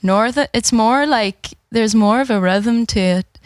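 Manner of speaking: put-on tentative Belfast accent. Player practising for the accent game, tentative Belfast accent. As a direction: try out a Belfast accent, feeling for its rhythm. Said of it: "need to practice this one".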